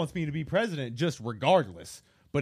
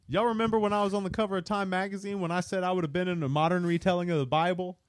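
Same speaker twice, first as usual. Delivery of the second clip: fast, higher boastful impression; mock voice of a famous rapper; 4 semitones higher, faster than usual. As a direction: rattle it off like a bragging celebrity.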